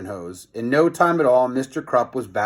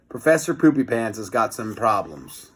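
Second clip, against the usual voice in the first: laughing; 3 semitones lower than usual. Real, not acted. Reader laughs at name.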